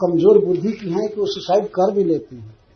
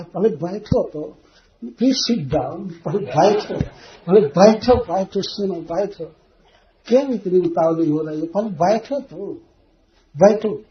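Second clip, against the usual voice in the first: pleading king. Retold or imitated. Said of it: "राजा दशरथ फिर उसके चरण में गिर करके कहा".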